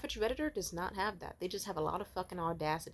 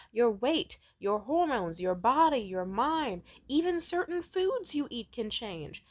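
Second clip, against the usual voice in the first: impassioned plea; 2 semitones higher, 6 dB louder than usual. Retold or imitated. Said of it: "I wanted to just be like".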